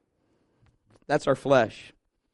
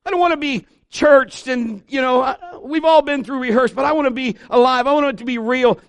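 desperate prayer; 7 semitones higher, 5 dB louder than usual. Pretend. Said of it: "Would you finally say".

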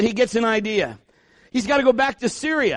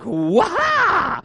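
high startled cry of wonder; amazed yelp; 8 semitones higher than usual. Acted. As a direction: burst out in amazement. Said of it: "coming out of the water and being like".

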